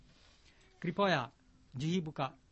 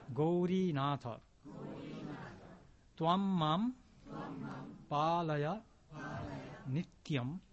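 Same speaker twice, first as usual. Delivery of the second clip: word-by-word model. Shown as a demonstration. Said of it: "ちょっと練習。 言葉だけ。".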